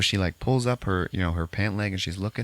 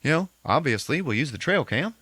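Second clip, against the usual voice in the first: higher, louder frantic voice; mock panic; 10 semitones higher, 3 dB louder than usual. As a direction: rush it in alarmed put-on panic. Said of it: "So, like".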